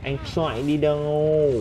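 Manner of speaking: slow, stretched taunting call; long-held "đâu" at the end; drawn-out taunt. Real, not acted. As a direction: drag out "đâu" as you taunt the runaway. Repeats the taunt at fleeing player.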